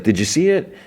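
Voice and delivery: a hint of a child seeking Dad's attention; imitated young son.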